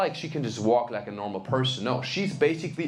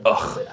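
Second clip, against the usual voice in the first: disgusted grunt; 8 semitones lower, 6 dB louder than usual. Retold or imitated. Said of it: "the barista looked at me, he was like".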